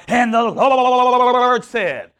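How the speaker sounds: slow, loud, booming prophecy; mock prophet voice. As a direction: drag it out like a shouting prophet. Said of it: "whenever somebody tried to prophesy".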